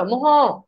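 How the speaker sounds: মহ ending on a drawn-out "ho"; visarga sounded out. Shown as a demonstration. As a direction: sound out মহ as "mo-ho", holding the end. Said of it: "এটার উচ্চারণ কি হয়?".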